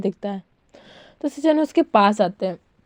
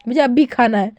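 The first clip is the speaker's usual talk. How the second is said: mild mock shout. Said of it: "चिल्ला के बोलता है".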